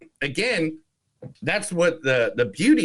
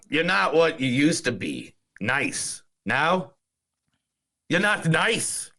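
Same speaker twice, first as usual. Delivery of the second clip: a light Irish lilt on the film quote; Irish accent; slower than usual. Retold or imitated. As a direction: read the line like an Irish villager. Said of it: "Thank you for the Irish accent".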